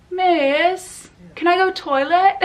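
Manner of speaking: high-pitched schoolkid whine, imitated; pupil asking teacher. Teacher mimicking pupils asking for the toilet, high kid voice. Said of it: "being a teacher, I would get asked".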